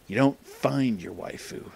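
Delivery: slow, soft, knowing wise-man voice, a light imitation; Jack Nicholson. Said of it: "I turned into Jack Nicholson there".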